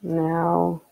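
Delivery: unhurried meditation guide, long pauses between phrases; guided meditation. Acted. Streamer leads viewers in late-night breathing meditation, calm guiding voice.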